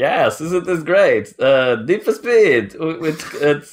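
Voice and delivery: awkward put-on Eastern European accent. Imitating a YouTuber who wasn't comfortable doing anything live, put-on Eastern European accent. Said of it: "that Eastern European accent".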